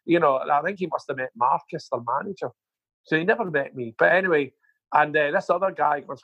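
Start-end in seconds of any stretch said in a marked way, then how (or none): none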